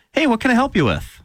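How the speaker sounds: high, chirpy customer-service greeting. Shown as a demonstration. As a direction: put on a high-pitched, eager-to-help service voice. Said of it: "I say my customer service voice".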